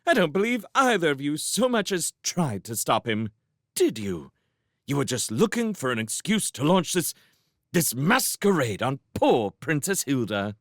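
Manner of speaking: high, indignant tirade; passionate. A narrator's reading. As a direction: pile up accusations against a husband. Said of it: "Sophie said passionately".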